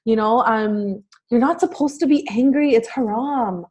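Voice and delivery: quoting parents who scold a crying four-year-old, mock nagging. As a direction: lightly imitate a parent telling a child off.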